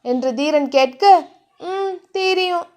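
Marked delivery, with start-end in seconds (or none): 1.6-2.7 slow, higher, softly smiling; smiling reply. A narrator's reading. Heroine assures her lover she knows, smiling. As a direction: answer with a soft, drawn-out smile. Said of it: "புன்னகைத்தாள் Diya".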